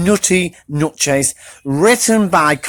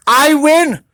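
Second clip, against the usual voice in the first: high, loud; triumphant; 9 semitones higher, 4 dB louder than usual. Acted. Pecan winning the race, high loud cry. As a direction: crow the win. Squirrel racing.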